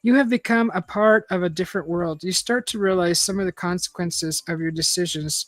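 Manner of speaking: measured read-aloud narrator; story narration. A narrator's reading. Reader telling listeners an adventure story, measured narration.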